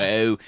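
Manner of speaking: OH as a drawn Baltimore long O. Shown as a demonstration. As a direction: demonstrate the Baltimore O vowel. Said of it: "that long O on everything".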